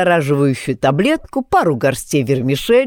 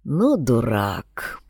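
sympathetic; 6 semitones lower, 5 dB quieter, much slower than usual. A narrator's reading. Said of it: "с сочувствием покачал головой Кривошип".

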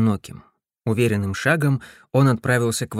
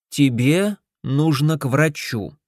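decisive; slower than usual. Acted. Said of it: "решительно сказала Эстер".

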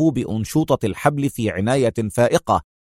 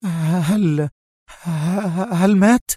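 agitated murmur; 6 semitones higher, much slower than usual. A narrator's reading. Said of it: "تغمغم في اضطراب شديد".

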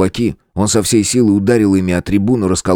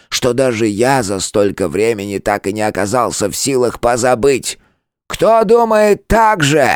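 an ancient elder pouring out his memory; old turtle elder; 7 semitones higher than usual. Acted. Old turtle to his friend, impassioned.

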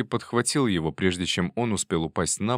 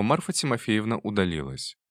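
ordinary delivery, nothing marked

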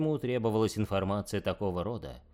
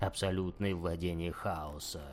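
nightmare spirit; 4 dB quieter than usual. Acted.

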